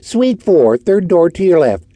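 put-on bored switchboard girl drone; flat, bored operator voice; droned. A narrator's reading. Switchboard girl droning directions to visitors, bored. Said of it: "droned the switchboard girl".

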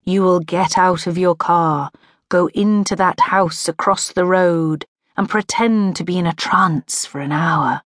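lightly put-on hypnotist, measured and even; mock hypnotic instructions, evenly paced; deep hypnotic voice. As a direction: intone commands as if inducing a trance. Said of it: "in my best deep hypnotic voice".

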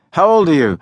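a loud pushy bully; loud demand. A narrator's reading. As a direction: press the kid hard. Smoke blower presses him.

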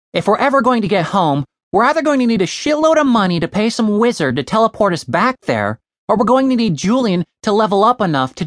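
Tim's voice, fired up. Acted. Tim rallying friends toward fantasy riches, brash. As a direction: pitch the plan like a rallying cry. Tim's big plan speech.

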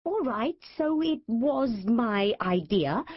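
blustering. Acted. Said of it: "I blustered".

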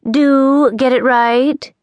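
prim correction. Acted. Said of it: "Missus Bibble corrected her".

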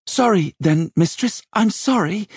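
put-on high-pitched boy's hasty apology; cowed servant lad; sheepish boy. A narrator's reading. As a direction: apologise as a cornered youngster, voice pitched well up. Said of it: "Simon muttered".

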